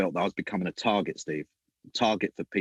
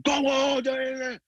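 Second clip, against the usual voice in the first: higher, louder taunting cheer; mock taunting cheer; 3 dB louder than usual. Taunting the rival coach on the touchline, mock cheer. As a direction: egg them on, teasing.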